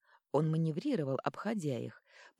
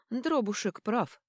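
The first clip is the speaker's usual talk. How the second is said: bright excited cry, drawn out; exclaiming; 6 semitones higher, 4 dB louder, slower than usual. Acted. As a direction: call it out with delight. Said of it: "воскликнула Тори".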